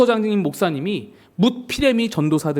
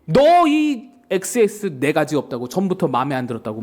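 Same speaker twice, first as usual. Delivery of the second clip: angry outburst; 2 semitones lower than usual. Retold or imitated. Pastor rebukes the young preacher who hit him, mock angry. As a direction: imitate a senior pastor losing his temper. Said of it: "화가 난 거예요".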